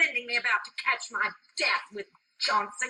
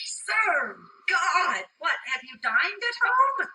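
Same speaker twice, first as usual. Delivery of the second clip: raised, high change of subject; brisk dismissal; 6 semitones higher, 3 dB louder than usual. Acted. Nurse sidestepping Juliet's question, brisk dismissal. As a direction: brush her off loudly.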